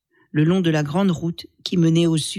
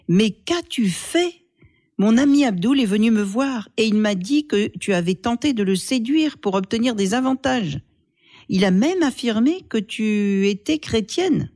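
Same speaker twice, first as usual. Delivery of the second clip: furious accusation; 5 semitones higher than usual. Acted. Brother confronting sister over the rumour, angry and accusing.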